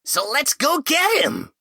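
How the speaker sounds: high, loud eager shout; excited exclamation. A narrator's reading. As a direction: burst out with excitement. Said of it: "Yanri exclaimed".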